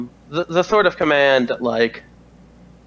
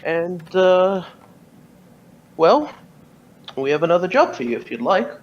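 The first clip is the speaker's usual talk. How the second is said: commanding officer voice; 4 semitones higher than usual. Acted. GM voicing Carberry, higher pitch.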